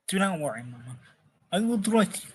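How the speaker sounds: put-on half-hearted Russian accent, veering toward German; shaky Russian accent attempt. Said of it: "a Russian accent. I'm gonna be terrible".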